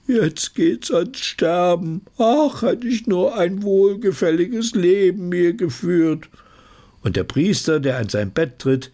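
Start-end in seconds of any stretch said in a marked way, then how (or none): 0.1-6.3 hoch, langsam gejammert; jammernder Sterbender. Acted. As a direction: klagend auf dem Sterbebett. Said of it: "ein jammernder Mann darin". (hohes, langsames Jammern)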